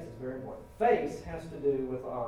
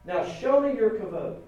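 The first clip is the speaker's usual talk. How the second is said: forceful demand; 4 semitones higher, 5 dB louder than usual. Acted. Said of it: "To which Moses said".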